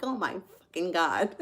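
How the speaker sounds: retold reaction through laughter; laughing disbelief. Storyteller quotes friend's shock at crying man, laughing. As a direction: quote it while breaking into laughs.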